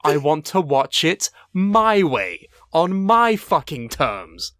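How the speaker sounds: slow, drawn-out insistence; slow, indignant declaration; emphatic defiance. Pretend. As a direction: lay down each word stubbornly. Mock-defiant rant in argument.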